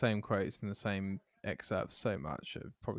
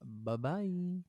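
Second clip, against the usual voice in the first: high bye-bye; 9 semitones higher than usual. Real, not acted. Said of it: "I did it again, Jay".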